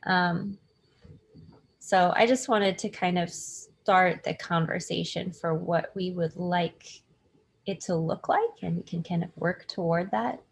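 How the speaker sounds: audio through computer speakers; tinny laptop mic sound. Real, not acted. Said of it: "I apologize in advance for my audio because I cannot find my headphones, so I'm speaking through the computer itself".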